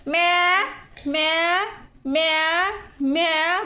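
drawn-out little "myaa" cries, lightly mimicked; imitating baby's bleat. Mother teasing her baby by copying its cries, light mimicry. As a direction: mimic a baby's whine, each cry separate and held. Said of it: "कोण करते".

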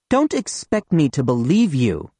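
a mild snap of disbelief; snapping. Acted. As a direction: cut him off sharply, lightly voiced. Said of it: "snaps Nina Petrovna".

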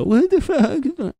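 high, slow, squealing disbelief; shocked viewer. Retold or imitated. Imagined viewers react to his rant, high and drawn out. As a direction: stretch it out like an appalled stranger. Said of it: "people were gonna watch this and go".

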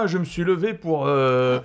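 démon des enfers qui se réveille, un peu plus haut; grosse voix de démon. Retold or imitated. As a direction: jouer un démon qui clame son retour. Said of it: "avec une grosse voix de démon des enfers". (voix de démon des enfers)

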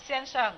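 "เซียนเฉิง" said short and run together; short, run-together pronunciation. Shown as a demonstration. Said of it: "เวลาออกจะแบบว้วนๆสั้นๆ".

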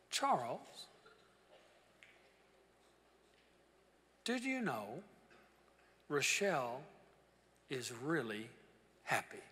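happy tone. Retold or imitated. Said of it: "kinda had a happy tone to his voice".

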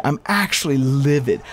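normal talking voice

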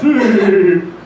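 short laugh from high in the chest. Shown as a demonstration. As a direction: show the wrong, shallow laugh. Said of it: "Not the, from the top of the chest".

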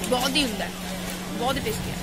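chewing while talking; muffled food-filled speech; mouth partly full. Real, not acted. Seen 0: Lips pursed, cheeks slightly bulged, chewing-like mouth while speaking; no food shown.

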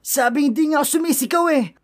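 exasperated, hurried denial; irritated protest. Acted. Acted quarrel, denies shouting while agitated.

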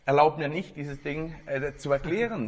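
lightly voiced old physicist, amazed and rattled; baffled professor. Professor tells the journalist what he saw, mildly astonished.

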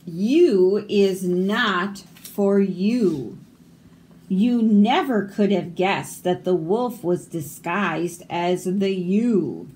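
slow, emphatic alphabet-book read-aloud; picture-book reading. Acted. Reader presenting the letter U page, picture-book reading. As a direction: stretch the key words for young listeners.

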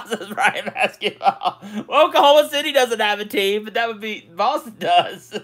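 can't hold back the giggles as he reads; laughing while reading. Real, not acted. Streamer reads a viewer's joke pick, laughing through the words.

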